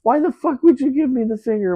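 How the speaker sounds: high-pitched, indignant retold outburst; mock-outraged comeback, pitched well up; angry swearing back. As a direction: imitate a combative man swearing back. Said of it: "started swearing at him back".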